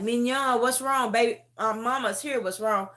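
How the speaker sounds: mama comforting her daughter in a dream; soothing mother. Retold or imitated. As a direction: comfort a frightened daughter gently. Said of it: "I just kept like".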